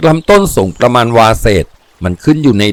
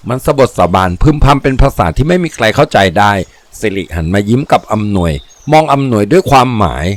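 ordinary delivery, nothing marked

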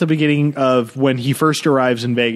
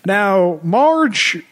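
mock Midwestern dad; 5 semitones higher, slower than usual. Dad addressing wife Marge.

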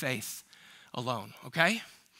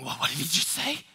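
much higher and louder, hammed-up outrage; mock outraged churchgoer; 11 semitones higher, 8 dB louder than usual. Suburban churchgoers scolding Jesus, hammed-up high outraged voice. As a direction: squeal like a scandalized suburbanite.

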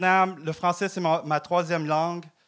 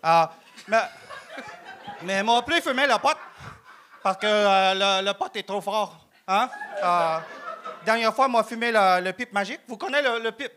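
broken French in a Vietnamese accent, played straight; put-on Vietnamese accent. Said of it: "J'y ai tellement cru à l'accent au début".

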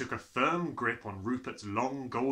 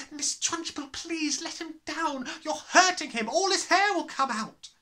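high pleading teacher's voice, rising louder; crying out; 5 dB louder than usual. Acted. Young teacher pleading from the back of the class. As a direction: beg her to stop. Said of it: "Miss Honey cried out".

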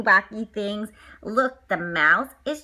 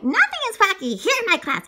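stern teacher; 7 semitones higher, 4 dB louder, faster than usual. Acted. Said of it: "And she's like".

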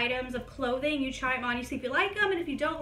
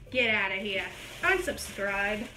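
mock dismissal; 5 semitones lower than usual. To viewers who miss the joke, low mock scorn. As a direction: pretend to kick them out, low and deadpan.

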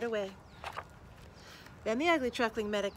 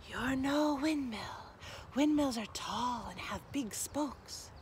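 kindly windmill, slow; 4 semitones higher, slower than usual. Acted. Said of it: "said the windmill".

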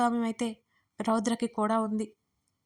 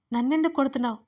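a slightly raised cry of protest; shouted; 3 semitones higher, 4 dB louder, faster than usual. Acted. Woman who was slapped crying out at her attacker, mildly raised. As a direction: push the question out a little louder. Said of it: "అని అరిచింది".

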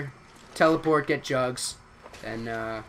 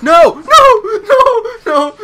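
shrill high screams of no, much louder; panicked screaming; 13 dB louder, slower than usual. Real, not acted. Gamer screaming at zombies as the round starts, real panicked scream.

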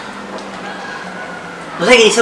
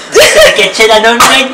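stifled giggles; 3 semitones higher than usual. Real, not acted. Laughs during the laugh challenge.

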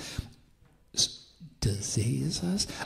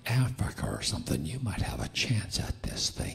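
mocking voice. Voice of darkness to American church, mocking. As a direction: list their failings as a jeer. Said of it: "I hear a voice that goes something like this".

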